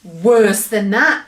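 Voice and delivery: a giant enjoying the disgust; laughing cry. Acted. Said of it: "cried the B F G".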